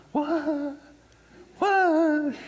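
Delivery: high, startled double what; shocked disbelief. Retold or imitated. Stunned at the banker's call, high shocked what. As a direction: react like the floor just dropped out.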